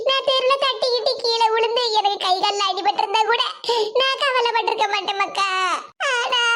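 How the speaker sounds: tearful, plaintive explanation; crying. Acted. Grandmother explaining her grief to Sudha, crying. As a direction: let the sobs creep into the line endings. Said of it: "இப்படி அழுதுகிட்டு இருக்கிய".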